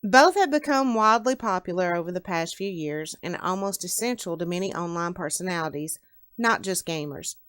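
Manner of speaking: measured read-aloud narrator; story narration. A narrator's reading. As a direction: read the opening of a novel to listeners. Reads own story aloud.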